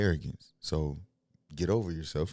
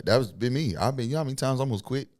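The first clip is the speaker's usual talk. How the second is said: higher, fast, laughing recollection; excited; 8 semitones higher, 6 dB louder than usual. Real, not acted. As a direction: gush about nearly quitting.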